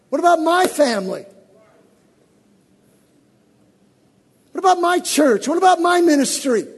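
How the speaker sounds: aggrieved prayer, rising to a loud cry; complaining believer. Retold or imitated. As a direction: voice the hurt believer arguing with God. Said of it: "you never say that. I only say that".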